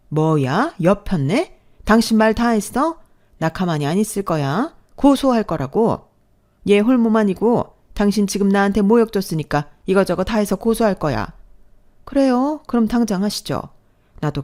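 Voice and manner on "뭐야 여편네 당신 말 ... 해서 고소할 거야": furious. Acted. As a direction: yell threats of a lawsuit. Stepmother furious, threatens lawsuit.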